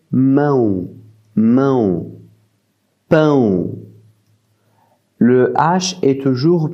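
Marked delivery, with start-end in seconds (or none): 0.1-2.1 mão with a nasal ão glide. Shown as a demonstration. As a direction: bring mão through the nose. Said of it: "elle va être prononcée". (mão, ão bien nasal)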